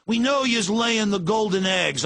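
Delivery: cartoon gangster voice. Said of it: "And they're like".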